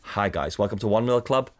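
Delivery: dull, dropping club-host intro; deadpan mock meeting opener; mock club welcome.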